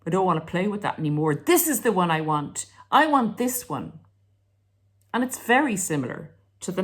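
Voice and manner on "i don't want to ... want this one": put-on bored child. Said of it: "And Johnny says".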